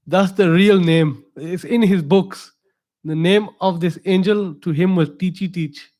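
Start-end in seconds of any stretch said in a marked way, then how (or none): 0.1-2.5 slow, laughing through the words. Real, not acted. Preacher laughing at a silly angel name. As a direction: chuckle at the absurd name.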